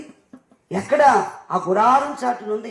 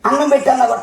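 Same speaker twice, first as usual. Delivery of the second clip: ordinary talk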